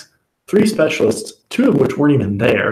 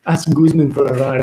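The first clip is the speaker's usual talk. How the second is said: lightly imitated Colombian accent, higher at the start; 3 semitones higher than usual. Friend questions him about the ride text, in a Colombian accent. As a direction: retell it with a hint of a Colombian accent. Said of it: "he has an accent. He's Colombian".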